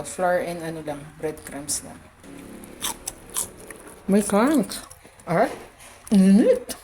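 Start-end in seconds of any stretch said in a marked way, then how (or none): 4.1-6.8 hot food yelp. Real, not acted.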